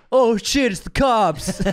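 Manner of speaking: high-pitched panicked warning; hammed-up alarm cry; mock alarm. Partygoer spotting police at the door, mock panic.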